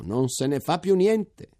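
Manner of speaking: high, slow, rising joyful exclamation; exclaiming. A narrator's reading. Major calling to the troops, high slow joyful exclamation. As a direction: stretch it out, lifting toward più. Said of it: "esclamò".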